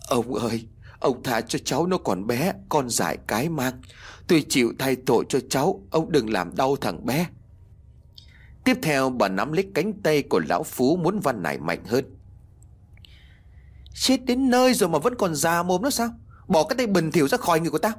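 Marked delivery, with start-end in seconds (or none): 0.1-7.3 begging mother. Acted. Old woman begs for son. 13.9-17.9 put-on high, rushed, contemptuous shout of a cruel old man; furious snarl. Phú shakes off the begging old woman, furious.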